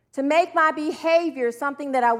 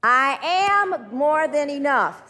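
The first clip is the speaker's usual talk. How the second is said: slow, drawn-out declaration; stretched, emphatic affirmation; leading an affirmation; 3 dB louder, much slower than usual. Shown as a demonstration. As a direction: say it slowly and firmly for others to join.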